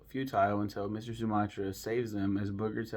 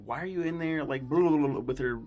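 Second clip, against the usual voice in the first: higher-pitched retold protest; mock freak-out; 4 semitones higher than usual. Sally finds Tommy in her shirt, mock freak-out. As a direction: imitate someone freaking out, half in earnest. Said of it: "And she freaks out".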